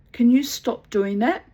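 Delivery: a loud sharp demand; angry demand. Retold or imitated. Confronting the neighbour's leering husband with a loud angry demand. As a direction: stop him cold.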